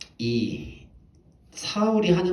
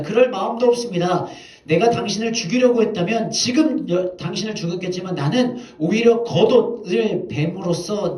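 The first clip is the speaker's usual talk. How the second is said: higher, louder pleading protest; David crying out to Saul; 4 semitones higher, 4 dB louder than usual. Retold or imitated. David calls out to King Saul, protesting his innocence loudly. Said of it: "사울을 불러서 외칩니다".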